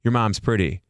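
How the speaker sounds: lightly voiced host hitting on a singer; creepy pickup line. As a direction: play it as a sleazy pickup line. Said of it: "His pickup line is".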